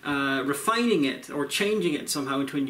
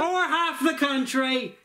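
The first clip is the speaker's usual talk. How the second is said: villain boss voice; 11 semitones higher, slower than usual. Pretend. Minion Bits boss voice.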